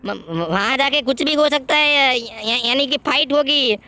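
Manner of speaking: a stuttering, scared friend stumbling over every first sound; nervous stammering sidekick. Acted. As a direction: get stuck on the first letter, lightly scared. Kanjo stammers in fear. (डरा हुआ हकलाता दोस्त)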